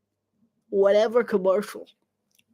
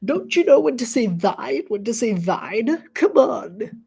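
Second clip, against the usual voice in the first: mock Olde English; 2 semitones higher than usual. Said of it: "I'm mocking Ye Olde English".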